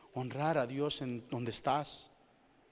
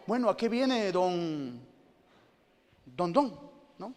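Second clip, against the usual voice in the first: imitating a patient; 6 semitones higher, 5 dB louder than usual. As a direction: play a mildly pompous patient at the doctor's. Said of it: "le dices".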